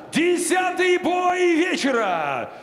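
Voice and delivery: slow, stretched call to the arena; announcer shout. Acted. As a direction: belt out the bout number. Announcer calling the bout.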